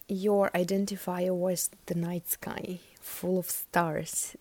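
full of stars stretched out slowly; drawn-out phrasing. Shown as a demonstration. Tarot reader naming the card's image, slow and lingering. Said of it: "This is how I said it".

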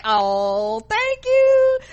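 mock bashful thanks. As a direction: thank her sweetly. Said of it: "I was like".

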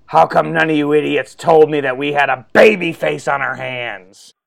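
half-hearted angry rant at the staff; mild mock outburst. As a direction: boss scolding his crew after a show, a mild mock outburst. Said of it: "takes a deep breath and goes".

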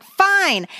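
frustrated outburst. Retold or imitated. Mother retelling yanking her child's pillow, frustrated. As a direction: give in with a mock-frustrated burst. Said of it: "I was frustrated, right?".

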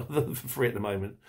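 chuckling as he repeats "free"; amused repeat, stress on free. Real, not acted. Viewer teased about a free offer, amused chuckle. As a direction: laugh into "free", then repeat it wryly.

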